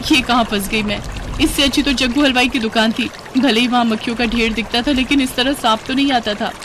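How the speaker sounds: put-on whining young daughter-in-law. Heroine laments being stuck.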